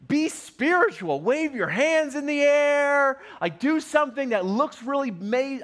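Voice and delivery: lightly voiced sulking general dictating how it should go; self-important Naaman. Preacher voices Naaman's expectations again.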